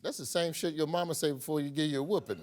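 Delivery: fast, laughing joke; laughing quip. Real, not acted. Host jokes about the minister's warning while laughing.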